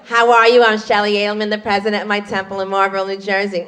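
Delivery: self-important North Jersey Jewish introduction; North Jersey Jewish accent. Retold or imitated. Sister-in-law introducing herself, North Jersey Jewish accent. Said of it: "North Jersey Jewish dialect".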